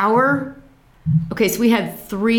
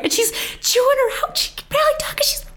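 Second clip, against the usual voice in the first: laughing; faster than usual. Real, not acted.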